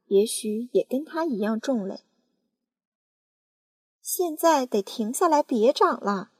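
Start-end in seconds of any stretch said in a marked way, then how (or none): 4.0-6.3 raised, high demand; aunt shouting at the peach; crying out. Acted. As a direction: order the peach to stop. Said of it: "叫道".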